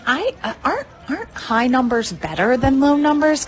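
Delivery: sweetly fake-naive, laughing; mock innocent taunt. Taunting Adam with fake innocence about her score, laughing. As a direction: play dumb to rub it in, with a laugh. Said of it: "I was like".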